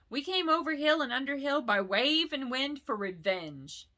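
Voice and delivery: butter up the dragon; flattering hobbit. Acted. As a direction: Bilbo nervously flattering Smaug. Bilbo flattering Smaug.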